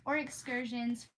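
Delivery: reading a classic aloud, unhurried; story narration. Acted. Reading aloud to her stream, storybook narration. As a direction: read it like a bedtime storybook.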